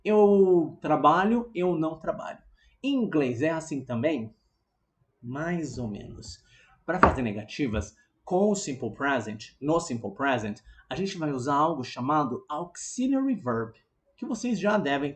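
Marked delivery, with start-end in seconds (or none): none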